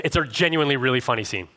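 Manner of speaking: ordinary talk, nothing marked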